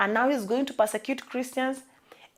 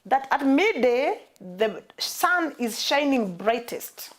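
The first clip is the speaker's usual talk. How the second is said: "midday" and "sun" drawn out slowly; slow it down to make the point; preacher stressing the noon sun; slow emphasis; slower than usual. Shown as a demonstration. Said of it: "I want us to notice".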